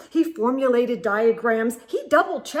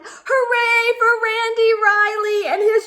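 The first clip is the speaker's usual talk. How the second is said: higher, louder cheering read; triumphant; 9 semitones higher, 5 dB louder than usual. Acted. Reader cheering Randy at the end, triumphant. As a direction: ring out the finale.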